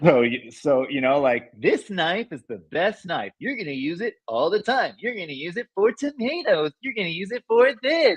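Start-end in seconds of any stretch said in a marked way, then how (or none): 1.5-8.2 TV sales-pitch voice, high and swooping. Recalling believing that selling well required an infomercial sales voice. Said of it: "I thought that you had to use the infomercial voice in order to sell good".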